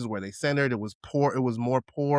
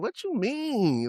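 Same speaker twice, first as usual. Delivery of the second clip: play-acted indignant, pitched up, drawn-out, mean; 10 semitones higher than usual. Speaker retells asking a friend what she meant, mock-indignant. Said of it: "I was indignant".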